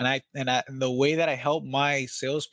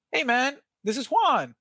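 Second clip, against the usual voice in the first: pitched well up, slow and friendly; excited greeting; 10 semitones higher than usual. Shown as a demonstration. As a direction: sound thrilled to be calling. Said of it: "high pitch, high voice".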